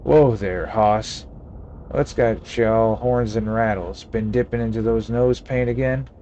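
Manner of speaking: a hint of a crusty Western sidekick; folksy frontier old-timer, mildly played; old cowboy voice. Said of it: "Gabby doesn't talk like that".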